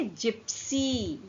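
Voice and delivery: very slow "जिप्सी", starting on j; soft G word. Shown as a demonstration. Teacher showing how to say the word, slow demonstration. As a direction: stretch out "जिप्सी" in two syllables. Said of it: "तो क्या बोलेंगे".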